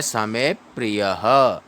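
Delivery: समे with में leaned on, slowly; समे प्रियः, weight on में; stress on में. Shown as a demonstration. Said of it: "में पर बल दिया जाता है".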